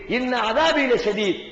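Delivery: slow, measured recitation of the Arabic verse; slow reverent Arabic recitation; Quranic recitation. Acted. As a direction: intone the verse slowly like scripture. Quoting the verse a third time.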